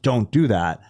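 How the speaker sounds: a touch of firm parental bass; lightly deepen it to warn a child. Retold or imitated. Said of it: "put a little bass in my voice".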